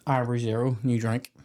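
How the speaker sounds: stiff robotic sponsor plug; robotic ad read. Acted. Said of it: "you're just robotic about it".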